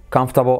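comfortable clipped to /kanftabo/; native comfortable. Shown as a demonstration. Teacher contrasts student and native comfortable. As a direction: squeeze comfortable into three syllables. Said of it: "el nativo dice".

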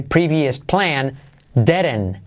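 very slow and careful; slow teacher model; slow demo. Shown as a demonstration. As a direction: drag out each word for learners. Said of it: "como derecho".

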